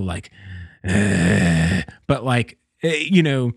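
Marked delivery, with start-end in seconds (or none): 0.9-1.8 low guttural "ugh"; guttural groan. Retold or imitated. Dreamer imitates the zombie's repeated phrase, guttural. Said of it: "it was just like a guttural".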